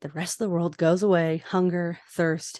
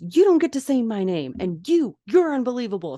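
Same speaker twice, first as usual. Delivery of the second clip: raised, higher yell at a friend; retold yell; 5 semitones higher, 4 dB louder than usual. Izzy yelling at George for betraying her. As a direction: snap it out like a hurt best friend. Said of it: "she yells at George".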